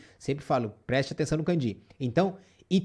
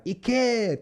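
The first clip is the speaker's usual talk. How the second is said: higher, sharp command: Ike!; barked order; 5 semitones higher than usual. Shown as a demonstration. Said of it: "Tá dando uma ordem". (ordem ríspida: Ike!)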